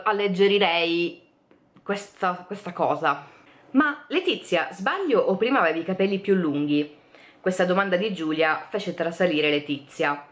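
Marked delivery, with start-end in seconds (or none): 3.7-7.0 lightly voiced prying girl, pitch up on the name; a hint of a nosy friend asking; Giulia's question.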